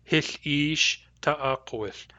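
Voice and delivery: Hith ish ta'akowith, the vowel of ish held long; Nuu-chah-nulth phrase. Shown as a demonstration. Teacher voicing Grace saying Hith ish ta'akowith with a long ish. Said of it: "the vowel of ish is long".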